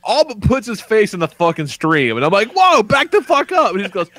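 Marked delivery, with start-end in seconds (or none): 2.5-3.7 high, loud startled warning; retold alarm. Dad at the toilet to his son, high startled shout. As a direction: yelp it like someone crowded.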